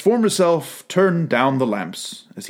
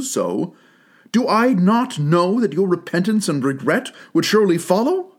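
put-on young girl, sorrowful; 4 semitones higher than usual. Girl voiced in the story.

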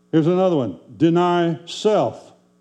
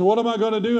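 higher-pitched mimicked plea; helpless pastor; 5 semitones higher, faster than usual. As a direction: imitate him asking for help, pitched up. Pastor's helpless question retold.

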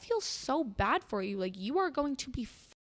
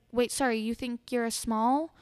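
louder incredulous retold question; mock disbelief; 6 dB louder than usual. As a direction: imitate someone making her repeat it. Retells the dancer's repeated mocking question.

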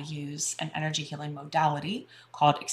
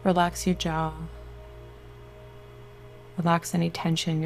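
guided meditation. Acted. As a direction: soothe them into relaxation.

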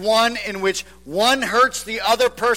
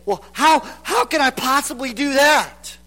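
indignant objection; 2 semitones higher than usual. Retold or imitated. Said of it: "and we say".

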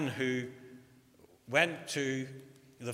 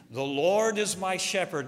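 louder, higher, grand recital without real singing; actor's beautiful rendition; 4 semitones higher, 6 dB louder than usual. Retold or imitated. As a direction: declaim it like a polished performer. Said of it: "he sung it with a beautiful voice".

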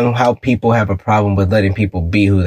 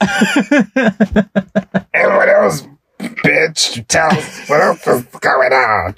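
raised, raspy mock voice; 5 semitones higher, much slower than usual. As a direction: rasp it out like a heavy smoker. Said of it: "This was just using raspy voices today".

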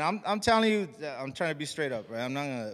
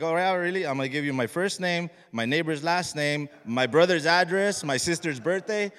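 louder, punching each fake detail; mock agreeable; 4 semitones higher, 6 dB louder than usual. Answering signature collectors he distrusts, mock agreeable. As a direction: play along loudly, listing bogus details with relish.

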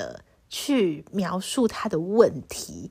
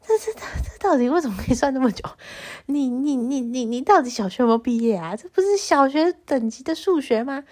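mocking teasing; 4 semitones higher, 4 dB louder than usual. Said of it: "觉得很好笑，就说".

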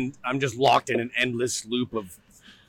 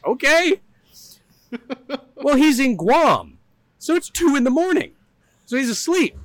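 excited retelling; 12 semitones higher, 7 dB louder than usual. Real, not acted. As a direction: tell it high and loud, savoring it. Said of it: "excited retelling".

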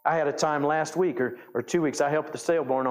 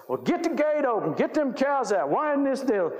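retold hollering; 8 semitones higher than usual. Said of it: "hollering at us".

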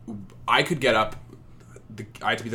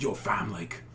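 loud drawling Toronto bro; Toronto slang voice; 3 semitones higher, 4 dB louder than usual. Retold or imitated. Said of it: "this one guy's like".

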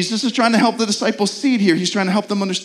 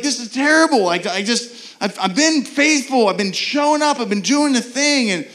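frustrated believer; 5 semitones higher than usual. Retold or imitated. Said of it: "you're like".

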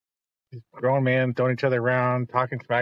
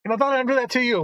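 mock ringside yell; 9 semitones higher than usual. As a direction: urge the wrestler on like a ringside fan. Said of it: "yelling at the T V".

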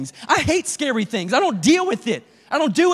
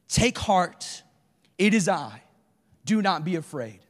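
softer and lower, calming the frightened; gentle reassurance; 6 semitones lower, 4 dB quieter than usual. Acted. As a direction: speak like soothing a scared friend. Jesus comforts frightened disciples.

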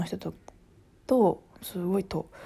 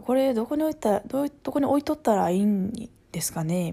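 polite question in Kansai lilt; Kansai intonation; 2 semitones higher than usual. Retold or imitated. Coworker asking where to put something, in Kansai intonation. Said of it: "そのイントネーションにさ".

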